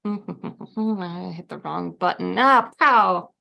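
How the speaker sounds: slow, drawn-out mad scientist voice. Retold or imitated. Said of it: "You sound like a mad scientist over there".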